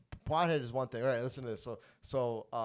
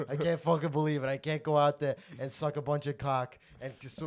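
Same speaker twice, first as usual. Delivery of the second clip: mock Godfather rant; 3 semitones higher, 7 dB louder than usual. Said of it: "we were just like".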